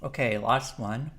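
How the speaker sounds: talking with mouth full; speaking around a bite of food. Real, not acted. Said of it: "Try not to speak with my mouth full".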